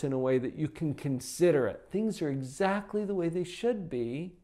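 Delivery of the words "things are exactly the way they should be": little lilt. Shown as a demonstration. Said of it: "say it with a little lilt to your voice".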